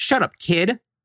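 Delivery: put-on young teenager voice. Describing kids in a group, the speaker quotes a 13-year-old telling off a younger kid, imitating a 13-year-old. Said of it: "that 13-year-old goes".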